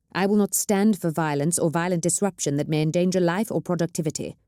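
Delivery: lightly voiced governor, laying down the law; a hint of a ruler warning the nobles; firm governor. Governor voiced in read story.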